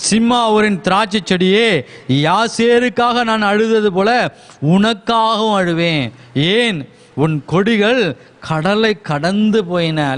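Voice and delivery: sermon-style scripture quotation; declaimed scripture verse. Acted. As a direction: proclaim the verse to a congregation, stretching the words.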